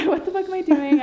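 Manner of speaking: high, loud laughing echo. Real, not acted. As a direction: laugh the line out. Echoing friend, laughing.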